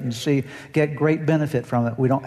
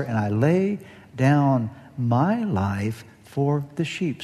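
slow, solemn, measured words of Jesus; slower than usual. Acted. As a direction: speak as the Good Shepherd, slowly and gravely. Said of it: "Jesus said".

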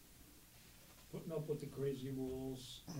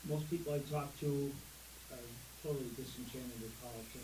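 echoing tunnel. Real, not acted. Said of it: "It sounds like you're talking through a tunnel".

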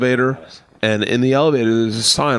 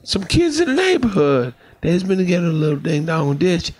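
a hint of Antonio, higher; maintenance man; 5 semitones higher than usual. Antonio repeating the warning about ding dong ditch, lightly voiced. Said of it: "He goes".

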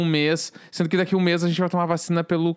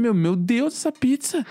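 excited gasp at the pizza; awestruck, pitch jumping up; amazed; 5 semitones higher than usual. Retold or imitated. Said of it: "Eu falei". (espanto empolgado)

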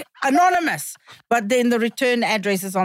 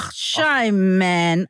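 South African accent; 5 semitones lower, much slower than usual. Shown as a demonstration. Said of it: "you can just literally say that".

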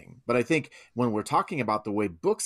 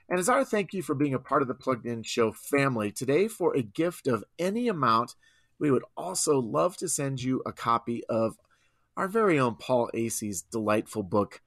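infomercial voice. Pretend. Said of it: "I put my infomercial voice on there".

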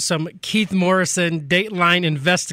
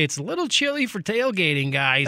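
mocking whiny fan. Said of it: "I'd hear a Bison fan say".

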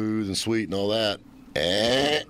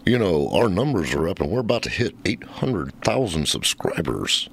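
Ed impression; 4 semitones lower than usual. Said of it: "I read him, he says".

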